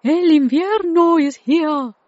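high, loud, excited news; excited announcement. Acted. Jacob tells Tilly that winter has arrived, excited. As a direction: call it out big and high.

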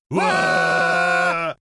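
loud high shared shriek; a shrieking Wah; screaming together. Acted. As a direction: scream in fright. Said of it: "They screamed together".

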